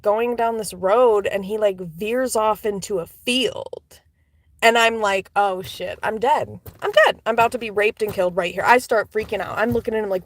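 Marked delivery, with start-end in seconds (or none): 5.4-8.6 mock panic. Retold panic in the taxi.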